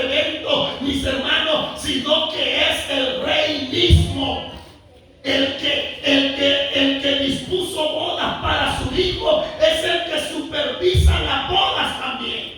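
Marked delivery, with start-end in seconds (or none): 5.2-12.5 builds into a full preaching shout. Real, not acted. Preacher rises to climax. (grito de predicador)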